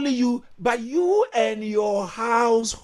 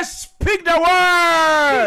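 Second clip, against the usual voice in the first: said with conviction; 3 semitones higher, 6 dB louder, much slower than usual. Shown as a demonstration. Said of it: "Say it with conviction in your heart".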